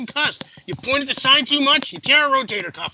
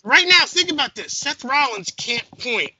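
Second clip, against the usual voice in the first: mock upset; 4 semitones higher than usual. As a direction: rant like a worked-up fan. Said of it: "now I'm gonna get upset".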